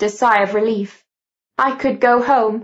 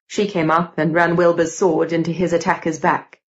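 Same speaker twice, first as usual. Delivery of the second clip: low, lightly voiced young man reporting; a hint of a sober male character, low pitch; factual Gideon; 4 semitones lower than usual.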